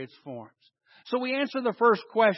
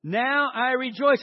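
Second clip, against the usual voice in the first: higher, slow, emphatic rejoicing; really meaning it; 4 semitones higher, 4 dB louder than usual. Shown as a demonstration. Preacher shows congregation how to mean it, emphatic. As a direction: proclaim it with full conviction. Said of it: "say it like you really, really, really mean it".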